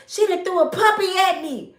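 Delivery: put-on high, loud disbelieving kid voice; imitating stunned officer. Young officer hit by the wig, high and stunned. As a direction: sound baffled and a little scared. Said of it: "He was looking at her like".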